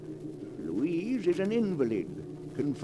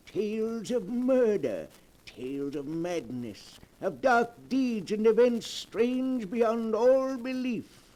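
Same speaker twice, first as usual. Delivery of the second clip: sinister storyteller host; 2 semitones higher than usual. Acted. Horror host introduces the tale.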